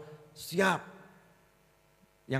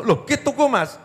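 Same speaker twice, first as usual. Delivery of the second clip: high, loud startled question; surprised wife; 8 semitones higher, 6 dB louder than usual. Retold or imitated. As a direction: gasp it out in disbelief. (istri kaget bertanya dengan suara tinggi)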